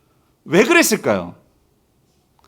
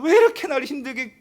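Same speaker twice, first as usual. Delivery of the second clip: higher-pitched mock grumble; retold complaint; 5 semitones higher than usual. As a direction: imitate someone moaning about hardship. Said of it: "이게 막 불평하는 사람 있었을 거예요". (불평하는 흉내)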